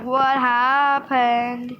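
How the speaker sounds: very slow, drawn-out question; mock dismay. Stylist to the customer who was happy before, drawn-out mock dismay. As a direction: stretch each word out in mock disbelief.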